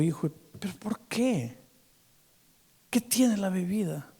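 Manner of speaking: tender retold question; gentle questioning. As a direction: ask softly, as to a son. Pastor gently questions the weeping drunk.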